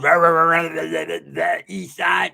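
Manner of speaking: hammed-up rah-rah rival chant, loud at the start; mocking scruffy voice. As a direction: mimic a rival hyping himself up. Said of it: "I hear his scruffy ass voice".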